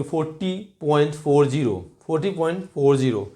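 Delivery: फ़ोर्टी पॉइंट फ़ोर ज़ीरो with फ़ोर ज़ीरो as separate digits; teacher models the correct decimal reading; right way. Shown as a demonstration. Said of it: "फ़ोर्टी पॉइंट फ़ोर्टी नहीं बोलेंगे।".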